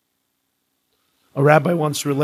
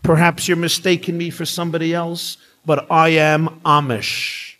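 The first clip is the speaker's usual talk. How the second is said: put-on perfect English accent; 3 semitones higher than usual. Man on plane answering the scolding woman, lightly put-on English accent. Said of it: "said in a perfect English accent".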